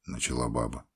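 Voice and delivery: plain reading voice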